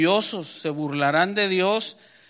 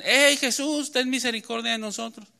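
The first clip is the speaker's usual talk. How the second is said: higher-pitched mock shout, no real volume; imitated distant call; 5 semitones higher than usual. Lepers hailing Jesús from afar, imitated call. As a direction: call out as if from afar, fading in level. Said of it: "le gritan".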